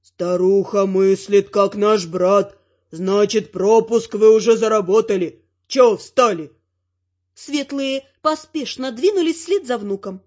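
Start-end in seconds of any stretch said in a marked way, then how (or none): 0.0-6.5 low, slow, gruff troll voice; a troll guard speaking gruffly but approvingly. A narrator's reading. (низкий медленный голос тролля)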